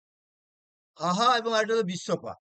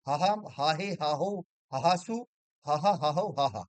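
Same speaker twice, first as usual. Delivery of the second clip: rhythmic rote recitation of word forms; declension recitation. Acted. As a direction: chant the case forms like a drill, lightly.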